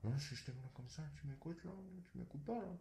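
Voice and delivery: barely audible mumble. Speaker shows the listener speech too low to be heard, very quiet mumbling. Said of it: "t'arrives même pas à m'entendre".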